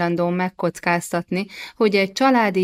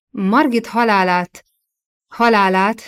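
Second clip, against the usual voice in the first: mild flustered stammer on a repeated word; 2 semitones higher, 3 dB louder than usual. A narrator's reading. King caught off guard by his wife's question, flustered stammer. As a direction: stumble lightly, pause, repeat the word. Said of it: "dadogta hadonászva".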